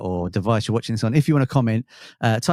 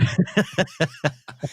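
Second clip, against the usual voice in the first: evil laugh; 5 semitones higher than usual. Acted. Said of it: "Yeah, so".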